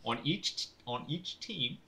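light put-on Cockney; Cockney accent. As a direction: explain it like a Londoner. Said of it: "your first time doing a Cockney accent".

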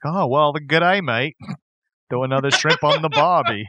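lightly imitated Australian accent; mock Australian accent. Quoting Dumb and Dumber, light mock Australian accent. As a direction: toss off a film's fake Australian greeting. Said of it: "my favorite reference to other accents".

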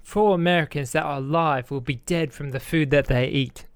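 a light put-on English accent; アメリカ人が真似る軽いイギリス英語訛り; English accent attempt. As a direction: do your best English accent, like the chef on stage. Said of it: "I'll try to say this in my best English accent".

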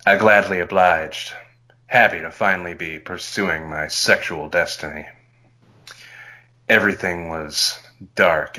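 low, hushed seductive read; sexy voice. Acted. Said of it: "time to use your sexy voice, Alan".

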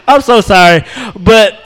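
ordinary talk

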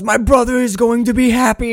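high, loud, hammed-up outrage; mock screaming rage. Imitating Nicolas Cage ranting about his brother, mock rage. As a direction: rage bitterly at your brother's happiness. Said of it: "He's screaming his rage".

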